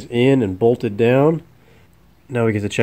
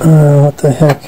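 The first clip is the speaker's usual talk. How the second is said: surprised; 5 semitones higher, 9 dB louder, slower than usual. Real, not acted. Surprised by mislabeled cable.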